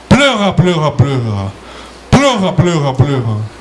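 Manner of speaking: pleura said the French way, throaty r, fading away; mock French echo of pleura; French accent. Shown as a demonstration. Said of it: "assim que fala em francês". (eco com sotaque francês)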